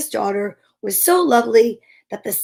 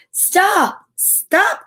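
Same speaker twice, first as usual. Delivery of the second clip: frantic frog cry, much higher; 9 semitones higher than usual. Acted. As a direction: call after her, desperate. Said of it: "cried the frog".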